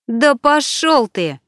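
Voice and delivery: high, slow, contemptuous brush-off; angry. Acted. Alina tells Turanov off in the cafe, scornful. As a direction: dismiss him with pure scorn.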